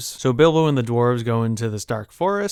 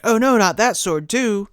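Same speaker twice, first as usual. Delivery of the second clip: slow, high comic wail; mock dread; 10 semitones higher than usual. Goblins seeing the second sword, high mock-fearful moan. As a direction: wail it in hammed-up alarm. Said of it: "they're like".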